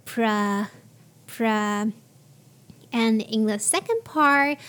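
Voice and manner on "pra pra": "pra" short with a weak vowel; reduced pra. Shown as a demonstration. Teacher modelling the first syllable of promotion. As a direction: clip "pra" quickly. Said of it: "so it's pra".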